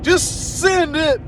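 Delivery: drawn-out go for it; urging him on. Retold or imitated. Retold urging the driver on.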